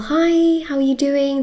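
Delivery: chirpy, warm hello to a friend; cheerful greeting. Retold or imitated. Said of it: "They won't be like".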